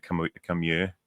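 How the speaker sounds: "year" with a y at the front, meaning here; Welsh pronunciation of "here". Shown as a demonstration. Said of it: "they say "year".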